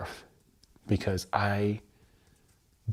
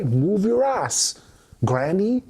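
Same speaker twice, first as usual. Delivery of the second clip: mock granny yell; 10 semitones higher, 5 dB louder, slower than usual. Voicing granny's scolding.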